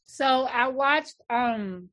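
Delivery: talking through a mouthful of popcorn; chewing popcorn while speaking; mouth full. Real, not acted. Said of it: "sorry, I got popcorn in my mouth".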